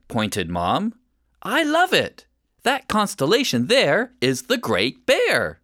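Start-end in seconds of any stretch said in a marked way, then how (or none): 1.4-5.6 delighted. Acted. Mom points at stars.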